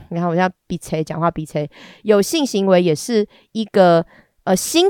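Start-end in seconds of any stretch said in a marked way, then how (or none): 0.1-1.7 鼻塞. Real, not acted.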